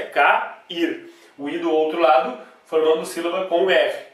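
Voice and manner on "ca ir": ca-, ir said as two separate syllables; split into syllables. Shown as a demonstration. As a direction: break ca-, ir into two beats. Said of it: "a pronúncia é".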